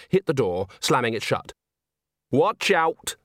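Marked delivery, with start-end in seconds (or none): 2.3-3.2 bright cheerful warning. Acted. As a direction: call it out cheerfully. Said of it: "said Nanny cheerfully".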